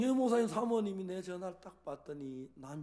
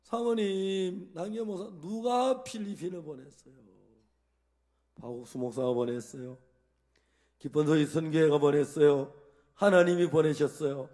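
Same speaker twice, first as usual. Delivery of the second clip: loud questioning; 8 dB louder than usual. Retold or imitated. Pastor retelling his questions to the wife, loud and emphatic. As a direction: drive the questions home.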